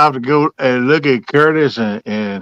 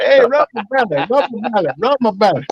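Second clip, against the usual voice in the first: pleading dog voice; 5 semitones higher than usual. Retold or imitated. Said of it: "open my legs up and say".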